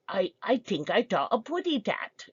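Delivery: lightly voiced cartoon canary lisp; playful hint of Tweety's baby-talk lisp; Tweety Bird. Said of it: "was it Tweety Bird, you say".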